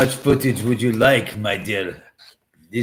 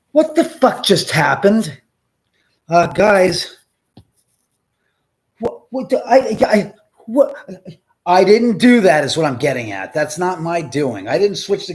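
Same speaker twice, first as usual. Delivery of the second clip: high, loud, stammering disbelief; shocked; 7 semitones higher, 9 dB louder than usual. Real, not acted. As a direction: blurt it out in shock. Camera switched unexpectedly.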